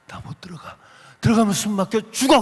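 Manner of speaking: retold plea of someone afraid of suffocating; retold panicky plea. Brother begs sister not to enter the crowded church, retold panicky plea. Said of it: "못 들어간다고 그랬잖아요".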